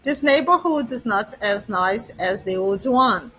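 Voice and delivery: slow, careful English for learners; teacher reading an English example slowly to students; slow example sentence. Shown as a demonstration. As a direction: spell it out word by word for the class. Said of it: "Pra exemplificar".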